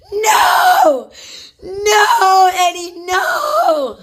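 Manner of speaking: high, loud, crying shout of "no"; retold screaming. Mother pinned on the bed, screaming no at Eddie. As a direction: scream it at him, half laughing, half pleading. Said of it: "screaming, screaming".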